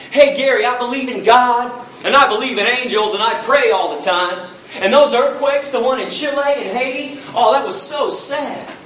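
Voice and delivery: sing-song mock of people who claim to care; mock believer. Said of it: "people always want to tell me".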